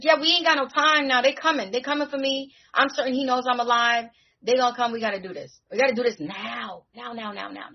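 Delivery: frightened ally rushing the ritual; urgent. Retold or imitated. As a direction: hurry them along before they come. Urgent plea before enemies arrive.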